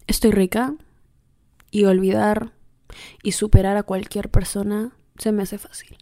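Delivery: a light, understated seductive murmur to the mirror. Shown as a demonstration. Telling herself she's irresistible in the mirror, mildly seductive. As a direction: purr it to yourself, only half committed. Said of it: "Así con esa voz seductora".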